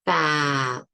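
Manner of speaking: "fat" ending on a sharp stopped t; "fat" with the t cut short; final stop. Shown as a demonstration. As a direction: clip "fat" off at the t. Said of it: "the T I can't continue".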